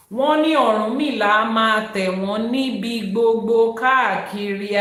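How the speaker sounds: loud, rapid recital of sacred verse; Yoruba verse recitation. Acted. Teacher reciting Ifa verse to online followers, forceful recitation.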